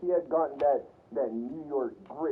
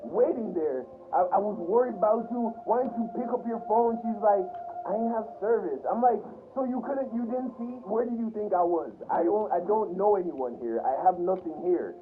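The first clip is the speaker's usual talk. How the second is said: higher-pitched, heated retelling; retold anger; 4 semitones higher than usual. Retelling angrily confronting his sister about the wait. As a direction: let the frustration spill over at her. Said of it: "So now I'm just feeling pure anger".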